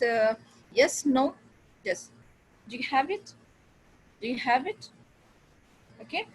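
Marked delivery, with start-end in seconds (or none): 2.7-3.3 yes-no question rising on "do you have it"; rising intonation. Shown as a demonstration. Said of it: "rising intonation, and the, when question is". 4.2-4.9 "do you have it" climbing to a questioning end; rising intonation. Shown as a demonstration. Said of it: "rising intonation, and the, when question is".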